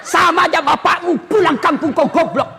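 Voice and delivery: cursing wife. Retold or imitated. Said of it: "tidak boleh maki-maki".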